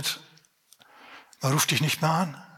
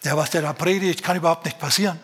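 grumbling churchgoer. Retold or imitated. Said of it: "und motzt über den Prediger".

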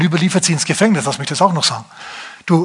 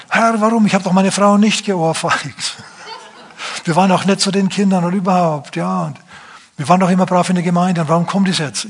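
mock whining lament; 4 semitones higher than usual. Mocking complaining Christians crying out to God, high whining lament. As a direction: whine up at God like a wronged believer. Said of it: "Die haben nicht gesagt".

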